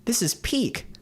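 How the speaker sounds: breathy high whisper of awe; awed whisper. Real, not acted. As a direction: whisper it in amazement.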